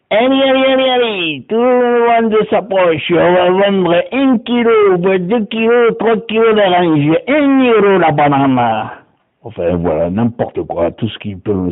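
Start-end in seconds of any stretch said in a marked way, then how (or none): 0.1-8.9 voix aiguë qui harangue, lente et appuyée; marchand de marché. Acted. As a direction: appelle les clients comme au marché. (vendeur de fruits qui harangue la foule, voix haute)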